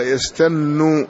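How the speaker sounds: يستن with a long, held doubled n; doubled noon. Shown as a demonstration. Teacher shows the reader the doubled noon, يستن with held n. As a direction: draw out the shadda on the noon of يستن. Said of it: "والنون مشددة".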